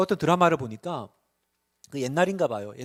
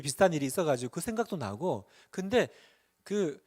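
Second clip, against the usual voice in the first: ordinary delivery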